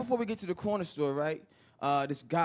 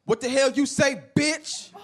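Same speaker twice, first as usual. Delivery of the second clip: confrontational, raised-voice demand; angry challenge; 3 semitones higher, 4 dB louder, slower than usual. Acted. Stranger who bumped him turning round on him, angry challenge. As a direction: square up and demand an answer.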